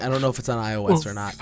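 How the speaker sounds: quick "I O S or not", words run together; hurried phrasing. Real, not acted. Unsure about the game's platforms, quick run-together "I O S or not". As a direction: say "I O S or not" quickly, as one unit. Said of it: "You have to say it like that".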